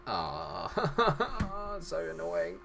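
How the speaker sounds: high laugh into a soft aside; laughing annoyance. Real, not acted. Commentator reacting to conceded goal, laughing annoyance.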